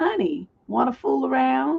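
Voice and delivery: put-on happy, hopeful man's voice. Telling a joke, voicing the husband's question: imitating a happy, hopeful husband. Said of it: "Looking all happy and hopeful".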